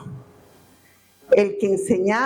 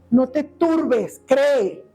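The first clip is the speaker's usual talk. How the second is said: gentle consolation; much slower than usual. Retold or imitated. The Lord consoling the believer.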